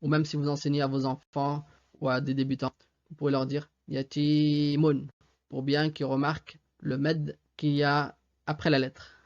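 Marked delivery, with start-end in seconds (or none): 3.9-5.1 exaggerated long vowel. Shown as a demonstration. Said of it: "à exagérer au début pour le".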